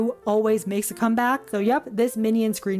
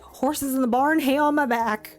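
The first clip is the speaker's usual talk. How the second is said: quicker, slightly raised catchphrase; demonstrated catchphrase delivery; 3 semitones higher than usual. Shown as a demonstration. Showing viewers how to say the new phrase, catchphrase delivery. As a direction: toss it out as one punchy saying. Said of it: "you gotta say it like".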